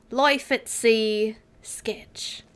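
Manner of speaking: mock dramatic whisper. Dramatic reading of chapter titles.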